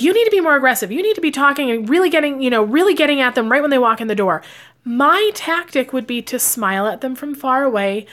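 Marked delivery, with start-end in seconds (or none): 0.0-4.4 loud, fast, high-pitched pushy boss voice. Retold or imitated. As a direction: push her like an impatient boss. Boss pushing her to sell harder.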